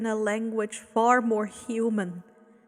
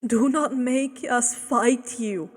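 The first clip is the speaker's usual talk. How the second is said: pleading; 3 dB louder than usual. Acted. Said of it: "the man pleaded".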